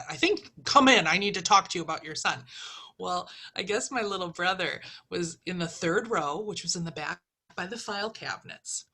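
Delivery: normal talking voice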